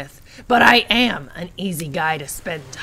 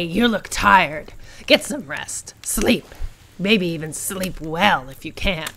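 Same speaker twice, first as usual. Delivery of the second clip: soothing; slower than usual. Acted. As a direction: lull them toward sleep. Character soothing the player.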